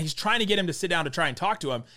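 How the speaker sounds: ordinary talk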